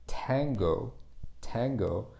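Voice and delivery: "tango" with an English T, tongue tip up behind the upper teeth. Shown as a demonstration. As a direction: say "tango" with a forward, puffed T. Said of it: "the T is pronounced".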